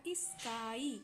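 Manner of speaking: "स्काई" drawn out into a final ई; pronunciation demo. Shown as a demonstration. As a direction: sound out "स्काई" slowly for learners. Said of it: "इसका प्रोनाउंसिएट किया".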